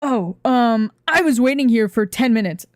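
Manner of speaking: retold irritated complaint, lightly acted; mock angry. Vendor mad at being kept waiting, mock angry complaint. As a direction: imitate an annoyed customer. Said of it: "Gets super mad at me".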